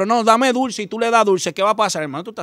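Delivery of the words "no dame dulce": put-on higher, begging child voice; daughter's high whine for sweets; whiny little girl. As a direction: beg for candy like a small daughter. Daughter insisting on candy.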